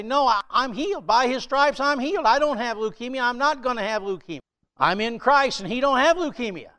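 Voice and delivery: high, defiant confession of healing; bold faith declaration. Retold or imitated. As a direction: declare it like you already own it. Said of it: "You have to say".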